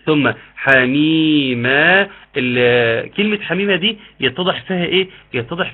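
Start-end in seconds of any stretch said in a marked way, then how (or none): 0.1-2.1 حميما drawn out slowly; clear recitation. Shown as a demonstration. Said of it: "الاظهار بتاع حميم".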